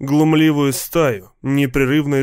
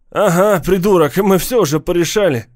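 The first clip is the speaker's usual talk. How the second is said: loud gang taunt; 5 semitones higher, 4 dB louder than usual. Acted. Gang member answers mockingly.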